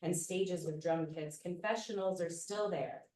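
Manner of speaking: measured, unhurried spoken word delivery; poetry reading. Acted. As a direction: read it like a performance poem. Reads her poem aloud.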